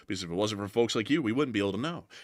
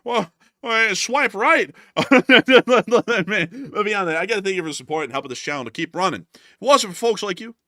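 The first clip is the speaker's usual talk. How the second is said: high, loud giddy joking; excited laughing; 10 semitones higher, 8 dB louder than usual. Real, not acted. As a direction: crack up and ride the joke high and loud. Joking about dating match.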